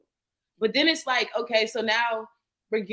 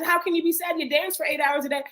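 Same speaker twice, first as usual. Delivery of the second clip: imitating mom; 7 semitones higher than usual. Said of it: "in her head".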